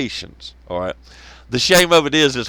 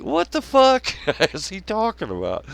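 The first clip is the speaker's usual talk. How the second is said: laughing disbelief; 6 semitones higher than usual. Retold or imitated. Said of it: "And you're like".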